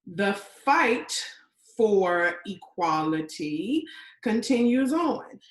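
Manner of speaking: slow, firm declaration; emphatic post. Acted. Woman reads out her post on equality, slow declaiming. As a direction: declaim it like a rallying slogan. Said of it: "I posted".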